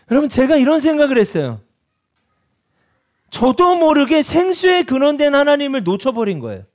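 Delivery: high, loud, impassioned preaching; fervent preaching. Acted. Preacher confessing to congregation, impassioned and loud. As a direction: pour it out like a revival sermon.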